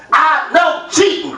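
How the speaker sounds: a touch slow, mock-crazed kid; wild-eyed kid. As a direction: comedian quoting son, mildly wild-eyed. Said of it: "with a wild look in his eye".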